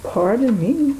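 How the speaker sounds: talking through a yawn; mid-yawn, words stretched. Real, not acted. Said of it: "yawning a little bit".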